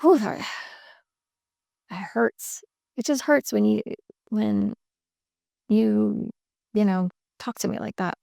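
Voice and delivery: clean hurt. Shown as a demonstration. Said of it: "Just stated".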